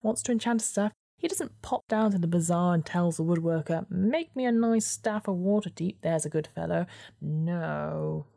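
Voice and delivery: a snide little weasel. Acted. Weasel tirade.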